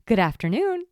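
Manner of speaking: lightly put-on sweet phone greeting; mom's phone voice. Mom answering the phone after yelling at the kids, mock-polite. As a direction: imitate mom switching to a polite hello. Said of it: "she would go ... totally different person".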